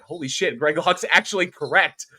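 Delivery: high, rising disbelief peaking loud; mock astonishment. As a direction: act amazed, building to a high punch. Acting out amazed reaction to Greg.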